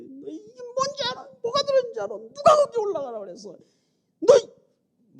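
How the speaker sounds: high, loud furious scolding; angry yelling at child. Retold or imitated. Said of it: "버럭버럭 막 소리". (딸에게 버럭버럭 소리치는 화난 목소리)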